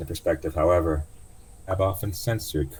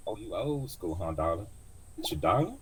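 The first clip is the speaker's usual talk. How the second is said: put-on old cab driver; 3 semitones higher, 4 dB quieter than usual. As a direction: tease him gently as the old driver. Driver teasing.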